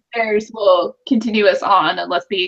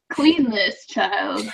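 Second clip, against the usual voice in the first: laughing; 4 dB quieter, much slower than usual. Retold or imitated. Mimicking crawfish, laughing.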